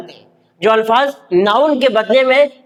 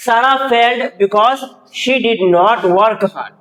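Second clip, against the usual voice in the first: slow dictation; much slower than usual. Shown as a demonstration. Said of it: "अब देखिए second में".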